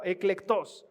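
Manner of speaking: eclectos said with the stress on the O; pronunciation demo. Shown as a demonstration. Preacher teaching the Greek word, stress on the O in eclectos. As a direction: say eclectos, leaning on the O. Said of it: "se pronuncia con acento en la O".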